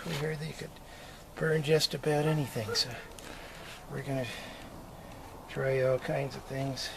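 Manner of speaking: winded, breathing hard between words; short of breath after exertion. Real, not acted. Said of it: "this old man's a little out of breath".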